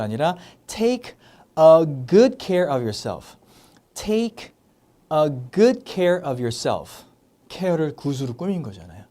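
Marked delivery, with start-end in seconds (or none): 1.6-3.4 "good" punched, very slow delivery; stressed good, slow. Shown as a demonstration. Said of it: "강조를 할 때는". 5.1-7.0 "good" punched, very slow delivery; stressed good, slow. Shown as a demonstration. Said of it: "강조를 할 때는".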